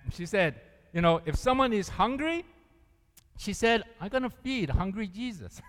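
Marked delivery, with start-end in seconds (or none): 4.0-5.6 quoting her. Retold or imitated. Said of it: "That's how she said it".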